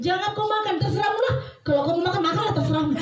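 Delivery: high, singsong take-it-or-leave-it warning; different, dismissive intonation. Retold or imitated. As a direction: imitate someone washing their hands of it. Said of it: "cuman intonasinya beda".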